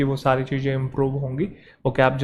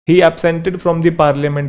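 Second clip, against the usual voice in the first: very slow, word by word; slow dictation; much slower than usual. Shown as a demonstration. Teacher dictating an error sentence to students. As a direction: dictate it slowly. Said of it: "dictating example sentence".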